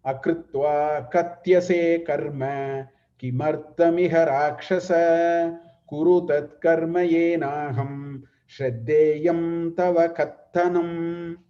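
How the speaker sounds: slow, measured verse intoning; Sanskrit shloka recitation. Acted. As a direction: intone the verse slowly like scripture.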